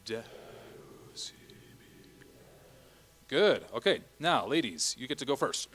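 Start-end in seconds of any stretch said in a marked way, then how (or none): 0.1-3.3 whispered Latin. Shown as a demonstration. Director whispers along with the choir. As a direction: whisper ibi est very slowly.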